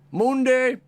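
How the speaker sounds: high, loud burst of glee; excited shout. Real, not acted. Astrologer announcing the day to viewers, excited high shout. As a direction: belt out the day name with joy. Repeats title with big excitement.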